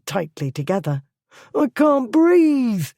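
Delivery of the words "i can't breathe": high, loud strained plea; choked plea. A narrator's reading. Thief pleading with Blackwood while choked, high strained voice. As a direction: squeeze it out as if choking.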